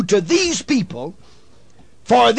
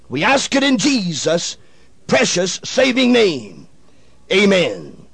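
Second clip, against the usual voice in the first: solemn, low, hushed prayer voice; 3 semitones lower than usual. Real, not acted. Radio preacher opening the broadcast in prayer, solemn and hushed. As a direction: pray earnestly before the sermon.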